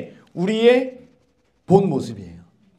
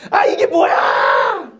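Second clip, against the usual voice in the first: slow, high, whining moan; whiny complaint; 7 semitones higher, much slower than usual. Retold or imitated. Preacher mimics grumbling Israelites, high whining. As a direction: moan like a tired marcher.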